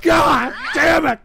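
halting, sobbing curse; wailing, choked despair; crying in frustration. Real, not acted. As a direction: break down between the words. Breaking down over trolls.

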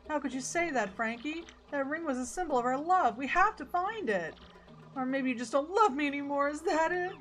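hammed-up lovers' tiff, hurt and high; hurt, clingy girlfriend. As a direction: play a girlfriend pleading, pitch climbing.

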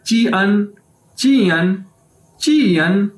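"ची अन" as chee-an; Chinese JIAN pronunciation. Shown as a demonstration. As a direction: say "ची अन" with ch, then an. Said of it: "ये किस तरह word बन जाएगा".

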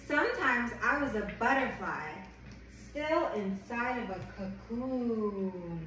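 gentle picture-book read-aloud; reading to a child. Acted. Reads picture book to baby.

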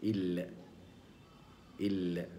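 ال- with a thin lam; ال- held, the ل light. Shown as a demonstration. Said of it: "وتنطق هكذا". (لام مرققة)

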